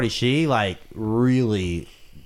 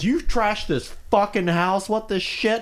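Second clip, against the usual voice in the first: retold angry landlord; 10 semitones higher than usual. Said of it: "and he goes".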